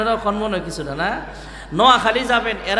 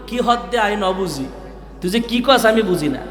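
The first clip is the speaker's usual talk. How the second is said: Chittagong dialect. Retold or imitated. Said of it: "এদের ভাষা আমি কম বলতে পারি".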